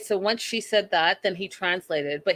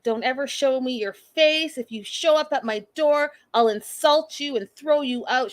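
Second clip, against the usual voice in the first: high-pitched mock outrage; mom freaking out; 5 semitones higher than usual. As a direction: retell an angry mother's outburst, pitched up. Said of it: "the mom freaks out".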